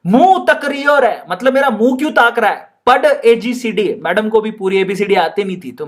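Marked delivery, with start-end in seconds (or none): 0.1-4.0 madam tells him off in Rajasthani; Rajasthani scolding. Acted. Madam scolding Jarnab for staring, Rajasthani accent. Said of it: "madam कहती है".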